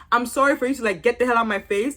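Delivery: grudging, dismissive sorry; insincere apology. Retold or imitated. Vlogger mimicking Andy's apology to Isaiah, mildly insincere. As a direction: apologize as if brushing someone off. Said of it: "That's what it sounded like".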